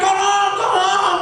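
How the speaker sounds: high, drawn-out call for help; imitated shout from out in the lake; acted cry for help. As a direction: call out slowly like someone drowning, acted. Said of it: "Orang itu teriak".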